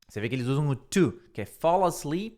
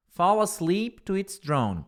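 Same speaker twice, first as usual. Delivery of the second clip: slow model phrase; 4 semitones higher, slower than usual. Shown as a demonstration. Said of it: "models phrase slowly".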